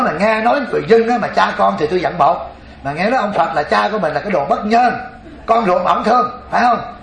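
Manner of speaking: put-on old woman indignant. Old grandmother grumbling to the boy monk about Buddha.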